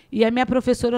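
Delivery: normal talking voice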